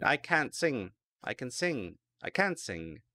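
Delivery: can't with a clear T against can; can versus can't contrast. Shown as a demonstration. Teacher drilling the weak T in can't. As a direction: make the T in can't audible, then drop it in can. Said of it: "Can you hear the difference?".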